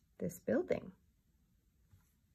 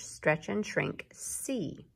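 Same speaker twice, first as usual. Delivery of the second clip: slow instruction; much slower than usual. Shown as a demonstration. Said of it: "We're going to".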